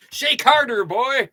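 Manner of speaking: a hint of a cranky old man, laughing; lightly voiced grandpa bark; Abe Simpson. Quoting Abe Simpson to viewers, lightly voiced old man. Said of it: "Abe Simpson".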